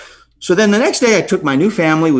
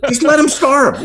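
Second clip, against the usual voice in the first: mocking own words; 12 semitones higher than usual. Mocking his past self.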